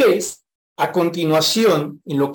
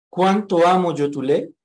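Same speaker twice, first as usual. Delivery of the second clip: "¿Cuánto amo yo tu ley?" asked with a rising questioning tune. Shown as a demonstration. Preacher turns the verse into a question for the church, rising. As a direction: turn the praise into a doubtful question. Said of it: "cámbiela por una pregunta".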